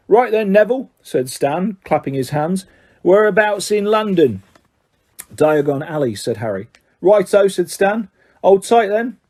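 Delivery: Stan's voice. Acted. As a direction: call out like a bus conductor. Stan addresses last passenger.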